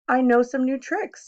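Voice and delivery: put-on an eager showman cat tempting the kids; playful cat showing off tricks; cat in the hat.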